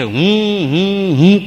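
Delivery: mocking "I, I". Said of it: "એમ બોલે છે".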